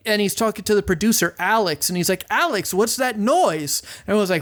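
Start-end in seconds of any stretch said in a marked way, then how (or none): 2.3-3.8 higher, slow, exasperated question; mock exasperation, stretched out; a singer, annoyed. Imitating a singer calling out to his producer, mildly annoyed. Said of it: "he keeps getting angrier and angrier".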